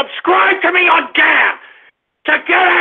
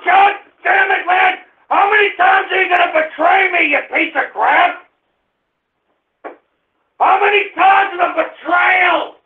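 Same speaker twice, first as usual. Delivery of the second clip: angry shouting. Acted. Host furious at betrayal.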